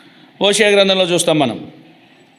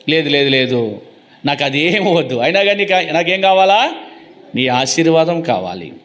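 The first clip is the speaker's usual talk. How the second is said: lowered-voice stubborn plea; acting out a humble, insistent reply; pleading insistence, acted; 3 semitones lower than usual. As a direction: brush the offer aside, then plead for the one thing.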